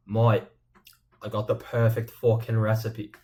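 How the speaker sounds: rough attempt at an Australian accent; badly faked Australian accent. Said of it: "I can't do an Australian accent".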